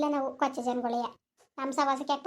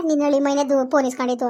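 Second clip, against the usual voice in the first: louder, accusing burst; angry outburst; 6 dB louder than usual. Acted. Woman accusing her relative before the village, shouting. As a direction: fling the accusation out. Heated family quarrel.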